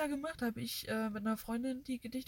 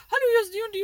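imitating a caller; 10 semitones higher, 11 dB louder, much faster than usual. Retells a phone caller's greeting.

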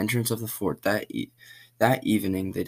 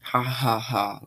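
higher mocking laugh; villain laugh; 3 semitones higher, slower than usual. A narrator's reading. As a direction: laugh at her, teasing. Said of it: "laughs Jason".

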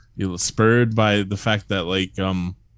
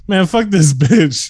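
exasperated mock retort; 9 semitones higher, 7 dB louder, slower than usual. Retold own reaction.

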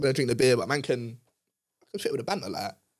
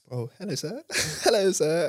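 lightly raised polite work voice; customer service voice; 3 semitones higher than usual. Pretend. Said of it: "You should hear my work voice".

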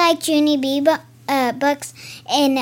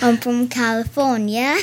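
lightly put-on accent; a hint of Accent Girl's accent. Accent Girl says where she is from, mock accent. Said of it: "Is that where your accent".

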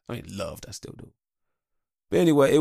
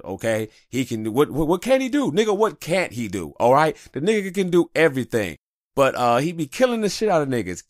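Professor X hype; 4 semitones higher, 5 dB louder than usual. Retold or imitated. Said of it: "like Professor X would describe Wolverine".

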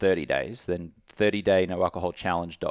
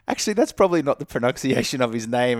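retold afterthought; 5 semitones higher, 4 dB louder than usual. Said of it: "And then I was like".

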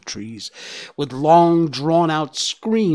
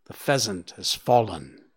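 lower, hushed dread; a touch of a shudder; 5 semitones lower than usual. Acted. Bambi's mother reporting the pheasant's fall with mild dread. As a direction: let it come out low with a slight shiver. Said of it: "said Bambi's mother with a shudder".

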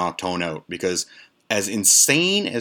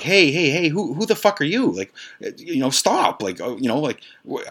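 mock angry yell; 7 semitones higher than usual. Lisa yelling at the stoned stranger raiding her fridge: mock angry yell. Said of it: "And Lisa's like".

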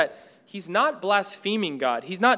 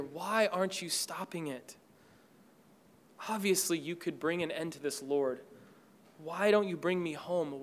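softer, hurting plea to God; grieving prayer; 3 semitones lower, 5 dB quieter than usual. Acted. David pleads softly to God, grieving and hurt. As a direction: pour out grief quietly, like a prayer.

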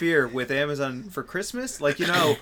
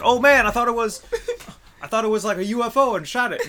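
higher and louder, mock innocent; sheepish excuse; 10 semitones higher, 8 dB louder than usual. Drone thief explaining he thought it was a UFO, mock innocent. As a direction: play the drone thief pretending it was an accident. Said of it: "They'll say something like".

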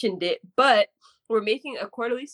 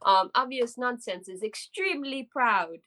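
mock Jamaican accent; 4 semitones higher than usual. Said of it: "turn off my Chet Hanks, um, Jamaican accent".

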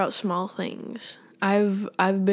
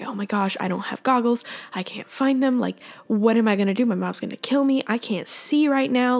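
retold panic; 3 semitones higher than usual. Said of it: "I'm like".

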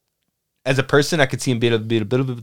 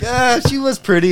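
mock dreamy sigh; 12 semitones higher than usual. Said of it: "So I was like".

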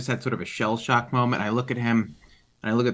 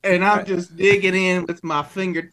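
put-on higher-pitched New York accent; 5 semitones higher than usual. Player describing digging, in a put-on New York accent. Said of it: "sand roll for Sam's accent".

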